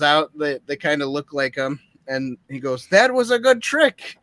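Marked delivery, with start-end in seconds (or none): 2.9-4.2 higher-pitched, put-on villain voice; film villain's line. Retelling the film to co-hosts, acted villain. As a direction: call it out like a pleased bandit.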